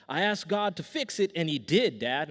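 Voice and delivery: a hint of an earnest kid explaining to Dad; insistent little son. Young son telling dad why his eye healed, mock-insistent.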